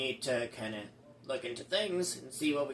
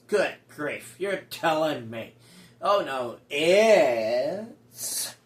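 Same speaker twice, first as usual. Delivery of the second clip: dramatic announcer; 4 dB louder, slower than usual. Acted.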